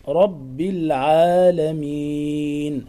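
"العالمين" chanted slowly with a measured long a; natural madd. Shown as a demonstration. Teacher shows natural lengthening after ayn in "العالمين". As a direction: hold the a of "العالمين" just two counts. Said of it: "هكذا المد الطبيعي بعد حرف العين".

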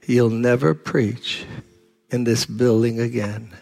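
low, slow, quiet menace; a sinister man quietly warning the pastor; menacing threat. Retold or imitated. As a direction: threaten him softly and slowly.

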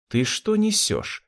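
high, slow indignant retort; flashing anger. Acted. Anne angry at Rudy's cruel words, indignant retort. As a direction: throw it back slowly in outrage. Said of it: "сверкнула глазами Энн".

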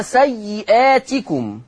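سيئاتكم with the long ā after the hamza drawn out; سيئاتكم in measured tajweed with a lengthened badal vowel; madd al-badal. Shown as a demonstration. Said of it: "مد البدل".

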